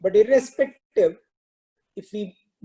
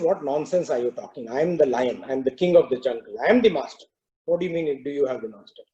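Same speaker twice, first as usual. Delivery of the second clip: lower, proud lion voice; scoffing lion; 5 semitones lower, faster than usual. Acted. Lion scoffing at the cow, lower proud voice. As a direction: talk down like the king of the jungle.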